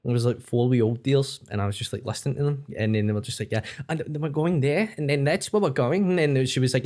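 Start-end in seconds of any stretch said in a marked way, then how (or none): 3.5-6.2 imitated New York lady; mimicked chatty American woman; American accent. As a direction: put on an American lady's accent. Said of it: "women just talking away".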